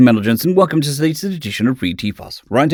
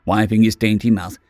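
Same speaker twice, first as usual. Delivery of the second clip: timid small creature. Acted. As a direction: sound small and hopeful. Keswick voiced high.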